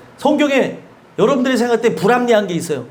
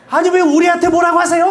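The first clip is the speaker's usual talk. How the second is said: indignant retort; 6 semitones higher, 5 dB louder than usual. Retold or imitated. Parent retorting to scolding stranger.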